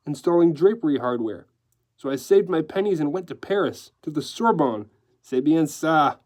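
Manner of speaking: decorator telling his tale with relish; obvious relish. Acted. Decorator recounting his rise to newsman, with relish. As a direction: savor the story, with light French flourishes. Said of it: "began his story with obvious relish".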